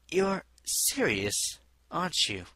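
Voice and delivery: surprised. A narrator's reading. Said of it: "she asked".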